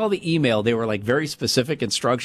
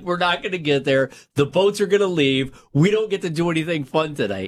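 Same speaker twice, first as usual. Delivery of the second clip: freaking out; 5 semitones higher than usual. Retold or imitated. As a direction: replay your own panic behind the wheel, pitched up. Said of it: "I'm freaking out".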